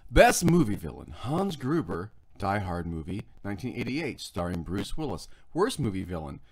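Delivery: lightly dramatic trailer voice; a hint of a movie announcer. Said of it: "I'll put on my movie voice".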